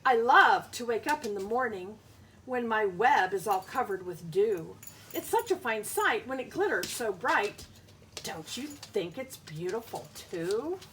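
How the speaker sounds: a hint of a dreamy spider, lilting read; lightly voiced spider. Teacher reads the spider's lines to her class, lightly voiced. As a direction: marvel at the dewy web. Bug speaks in book.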